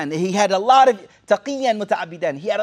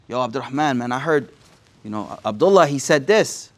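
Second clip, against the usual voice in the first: sly gossip; 5 semitones lower than usual. Pretend. Gossiper to Abdurrahman, a sly hushed confiding voice. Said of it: "Or you say it in a sly way".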